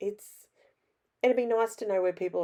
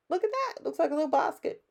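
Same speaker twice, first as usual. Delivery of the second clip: much higher, fast, gushing over her work; delighted squeal; 11 semitones higher, faster than usual. Real, not acted. Crafter shows off her finished basket, high delighted squeal. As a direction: squeal with pride at how it turned out.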